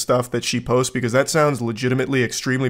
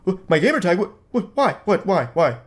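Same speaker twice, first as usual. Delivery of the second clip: stuttering, flustered panic, higher; hammed-up cornered sputtering; mock nervous stammer; 5 semitones higher, faster than usual. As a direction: stammer like he's pressed against the wall. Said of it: "he's starting to s-, sweat a little bit".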